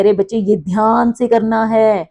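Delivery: teacher's tone lifting a little. Shown as a demonstration. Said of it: "tone जो है वो थोड़ी ऊपर हो जाती है".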